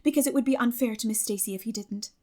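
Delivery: lightly voiced eager girl reading her letter; bright girlish letter-writer, a touch lively; Anne's letter voice. Anne's letter read as Anne.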